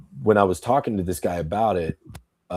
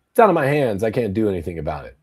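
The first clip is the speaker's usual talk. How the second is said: mocking whine; 2 semitones higher, faster than usual. Mocking passive people's excuse.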